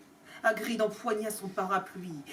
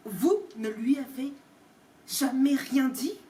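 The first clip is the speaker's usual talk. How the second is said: trembling with rage. Acted. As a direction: spell out each syllable in contained fury. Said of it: "en détachant chaque syllabe d'une voix tremblante de rage". (syllabes détachées, tremblant de rage)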